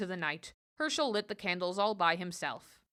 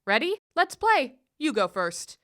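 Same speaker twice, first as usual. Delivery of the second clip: lightly voiced sly goblin; goblin's taunt; 4 dB louder than usual. Goblin teasing Herschel over the dreidel game, lightly voiced.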